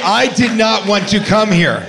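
half-joking shout of complaint; mock shout. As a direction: yell it like a sulky guest. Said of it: "A K A".

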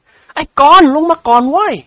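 loud, high call across the house; shouting. A narrator's reading. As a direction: yell after him to come down. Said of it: "ร้องตะโกนเรียก...เสียงลั่น". (พลตะโกนเรียกนิกรเสียงดังลั่น)

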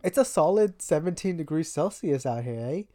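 lightly mocked Canadian accent. Podcaster playing Spot the Canadian, mock Canadian accent. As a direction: do a playful Canadian with a tagged-on "eh". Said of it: "my favorite game is Spot the Canadian".

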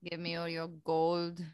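put-on gruff Russian pirate accent; heavy Russian accent, growled threats. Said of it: "I bet you could do a good Russian accent too".

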